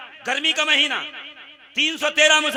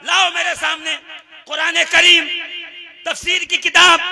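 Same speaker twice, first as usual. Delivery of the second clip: raised-pitch sermon call; preacher's challenge; 3 semitones higher, 5 dB louder than usual. Acted. Preacher demands books be brought before him, rousing call. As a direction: call out each item to the crowd.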